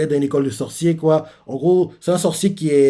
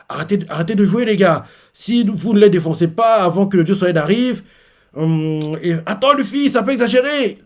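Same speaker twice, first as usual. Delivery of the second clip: mock urgent voices; 6 semitones higher than usual. Voices heard, retold manga scene.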